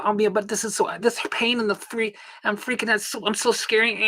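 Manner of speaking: high, whiny mock of a scared patient. Mocking a patient who stays home afraid, whiny. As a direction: pitch it up and whine like a worrier.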